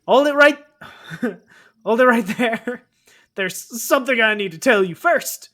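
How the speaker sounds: booming interruption. Acted. Sanders stopping the confession, loud and commanding. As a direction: cut her off, big and proud.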